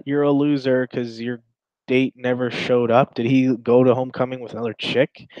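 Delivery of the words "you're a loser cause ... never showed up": mock taunt. Mocking bullies imagined.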